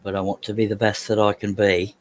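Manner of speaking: lightly put-on silly voice; playful, mildly weird voice. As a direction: say it in a slightly odd, affected voice. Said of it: "say that in a weird voice".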